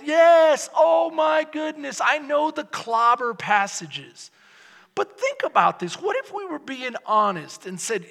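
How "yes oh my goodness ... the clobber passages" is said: mocking dismissal. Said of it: "by saying".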